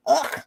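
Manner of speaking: short throaty "ugh" of disgust; disgusted groan. Real, not acted. Gossip host recoils from too much information, disgusted groan. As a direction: groan out your revulsion.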